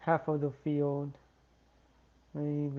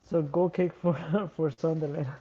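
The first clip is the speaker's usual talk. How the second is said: laughing; 3 dB louder than usual. Real, not acted. Laughing at own commentary.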